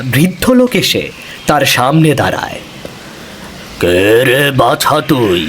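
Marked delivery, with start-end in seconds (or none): 3.8-5.4 slow, lightly voiced old stranger; drawn-out old man's questions, a hint of menace. Old man in black questions Madhumati in the forest, slow old voice.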